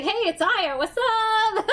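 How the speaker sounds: chirpy and laughing, your real self; own casual voice. Retold or imitated. Switching phone lines back to her real self, laughing. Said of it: "really easy for me to change".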